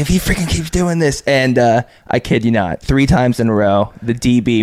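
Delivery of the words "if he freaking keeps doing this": quoting the coach. Retold or imitated. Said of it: "He's like".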